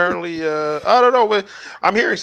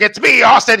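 mock dramatic reveal; 7 semitones higher, 9 dB louder than usual. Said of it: "It's Vince McMahon's like".

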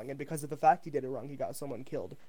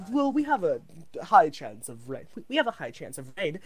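news reporter voice; 6 semitones higher than usual. Pretend. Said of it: "I don't know how to be a news reporter".

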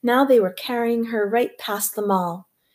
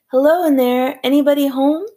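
higher, louder call from down the hall; shouting from the corridor; 5 semitones higher, 6 dB louder, faster than usual. A narrator's reading. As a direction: call out to the whole room, bellowing. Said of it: "distracted by shouting in the corridor".

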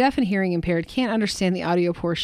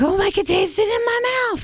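mock amazed dude; 14 semitones higher than usual. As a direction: play a hammed-up dude amazed at his own discovery. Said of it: "they're like".

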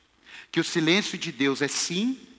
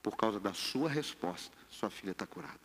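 very soft, low pronouncement; Jesus; 9 semitones lower, 14 dB quieter than usual. Acted. Preacher playing Jesus granting the woman's request, hushed and low. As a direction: lower right down, almost under the breath. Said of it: "Aí Jesus dá uma olhada".

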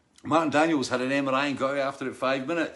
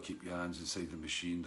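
commanding voiceover; 7 semitones lower, 12 dB quieter than usual. Retold or imitated. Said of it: "one of them voices where, you do what he says".

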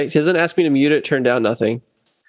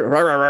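quick "rah rah rah" babble; imitated chatter. Bassist mimicking sound crew talking back and forth, nonsense chatter. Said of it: "they're talking back and forth".

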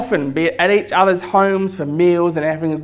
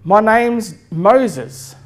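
higher, slow, lightly voiced parrot; talking parrot; 4 semitones higher, much slower than usual. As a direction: introduce yourself slowly as the parrot. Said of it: "And the parrot says".

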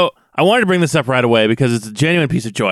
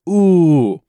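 imitated ooh; 4 semitones higher than usual. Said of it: "someone in the background go".

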